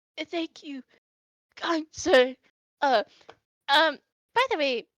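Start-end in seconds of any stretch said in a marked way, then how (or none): 0.3-2.4 faint, feeble, weak voice. Game master voicing a recovering man thanking the player, weak voice. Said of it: "and he weakly".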